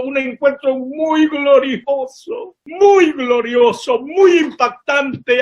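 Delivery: preaching in awe, slow and lifted; moved. Real, not acted. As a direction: stretch each word, overwhelmed by the memory. Preacher recalls a glorious encounter.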